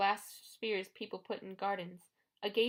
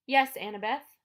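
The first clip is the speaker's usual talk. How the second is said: purr; 4 semitones higher, 8 dB louder than usual. A narrator's reading. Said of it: "the woman purred".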